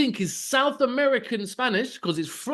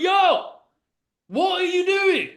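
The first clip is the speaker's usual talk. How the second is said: mock alarm; 10 semitones higher, slower than usual. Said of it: "and I'm like".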